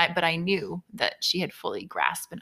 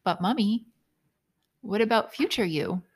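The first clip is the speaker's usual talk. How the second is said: put-on sweet child voice; 4 semitones higher than usual. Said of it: "she says".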